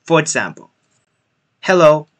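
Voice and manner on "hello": energetic classroom "Hello"; English teacher hello. Shown as a demonstration. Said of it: "I want to speak like the English teacher".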